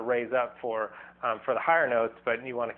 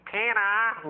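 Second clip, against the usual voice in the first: nasal, higher, very slow "Ah, Peter"; Lois from Family Guy; 4 semitones higher, much slower than usual. Retold or imitated. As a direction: drag it out like Lois calling Peter. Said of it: "Lois from Family Guy or something".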